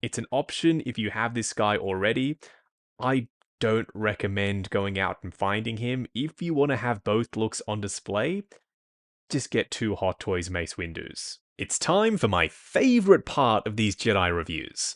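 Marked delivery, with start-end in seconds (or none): 11.6-14.9 heavy, dripping sarcasm, swooping sing-song. Introducing the saber part of a Jedi figure review: sarcastic. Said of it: "Can you hear the sarcasm?".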